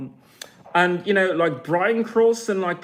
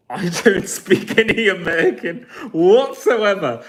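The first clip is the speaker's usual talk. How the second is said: laughing; 4 dB louder than usual. Real, not acted. Laughs mid-sentence.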